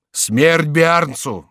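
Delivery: slow, drawn-out mob cry of death; angry shout. Acted. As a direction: bellow it like a mob. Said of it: "вскричали некоторые голоса".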